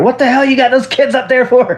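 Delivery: half-hearted what-the-hell; wife finds kids on the roof; mild mock scold. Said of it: "was like".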